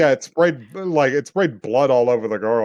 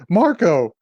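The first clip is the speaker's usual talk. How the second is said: higher, stammering mock plea; mock distressed plea; 8 semitones higher than usual. Retelling a woman menaced by a man with a knife, mock distress. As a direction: imitate a frightened woman pleading.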